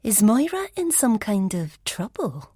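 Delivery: a secret relish in the question; hint of pleasure. Elspeth asking the police about Moira, hushed and eager. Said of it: "hint of pleasure in her tone".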